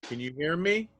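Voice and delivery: faint and far from the mic; barely coming through; quiet. Real, not acted. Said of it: "Better, yes, louder".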